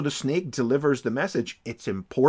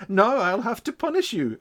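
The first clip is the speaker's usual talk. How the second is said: villain voice; 8 semitones higher than usual. Retold or imitated. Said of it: "And he says".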